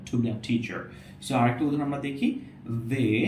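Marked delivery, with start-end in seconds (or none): 0.1-0.8 teacher said with a breathy ঠ; aspirated t. Shown as a demonstration. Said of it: "অনেকটা ঠয়ের মতো".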